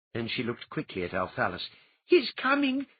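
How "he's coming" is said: high, louder put-on warning; urgent hushed alarm of the pale girl. A narrator's reading. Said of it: "she warned".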